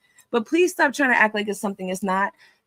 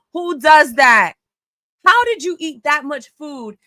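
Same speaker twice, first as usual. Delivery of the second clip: louder, slow, incredulous; outraged shout; 3 semitones higher, 5 dB louder, slower than usual. Real, not acted. Host appalled by his own live story, slow shout. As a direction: shout it out in disgust.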